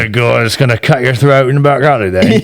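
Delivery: gritty English back-alley thug; angry English accent. Shown as a demonstration. Thug threatening in a back alley, angry English accent. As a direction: put on a menacing rough English accent. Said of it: "That sounds like the angry one".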